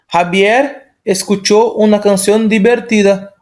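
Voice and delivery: slow Spanish sentence with b for v and h for j; slow, careful Spanish reading. Shown as a demonstration. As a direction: read it slowly, showing each sound. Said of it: "O som do V faz som de B".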